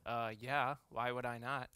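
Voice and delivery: lightly voiced sassy four-year-old; sassy kid answer. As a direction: toss it off like it's obvious. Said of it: "the right sassy answer".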